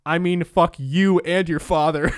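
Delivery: punchy mock retort. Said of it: "And he said".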